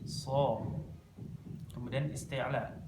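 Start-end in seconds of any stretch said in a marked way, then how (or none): 0.0-0.6 "So" with the sound flowing freely; open-ended, heavy "So"; sound released. Shown as a demonstration. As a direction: let "So" run out unblocked.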